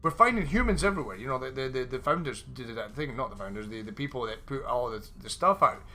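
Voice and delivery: worked-up, high-pitched tirade; requested mock rant. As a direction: build into an exasperated rant with punched words. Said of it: "Rant about the lack of dragons".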